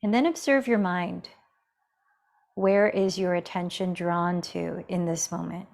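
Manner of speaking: calm, measured meditation guide with long pauses; guided meditation. Real, not acted. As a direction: gently guide them into the breath, leaving space between phrases. Leads breathing meditation.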